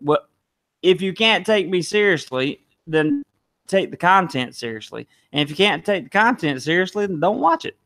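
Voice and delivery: rising, pointed comeback; defiant. Real, not acted. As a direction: talk back to the critics. Retort to critics.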